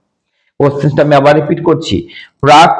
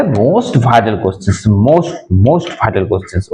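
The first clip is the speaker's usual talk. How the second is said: very slow, low and deliberate; teacher slowly stressing that these are the most vital questions; drawn-out emphasis; 5 semitones lower, much slower than usual. Real, not acted. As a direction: stretch each word to underline how vital it is.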